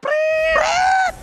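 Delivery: high shouted whistle sound; whistle imitation. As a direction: blow a vocal whistle.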